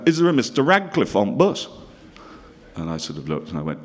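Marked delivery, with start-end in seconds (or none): 0.1-1.7 put-on cheery Bolton accent, raised a little; a Lancashire holiday-camp host calling out; holiday camp host calls for Mister Radcliffe in a Bolton accent. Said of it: "and he talked like that".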